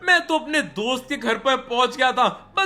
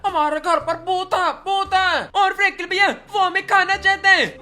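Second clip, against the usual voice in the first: put-on raised child voice, getting frantic; lightly voiced little boy in a panic; scared kid voice; 4 semitones higher than usual. Kids waking their big brother because of a ghost, frantic kid voice.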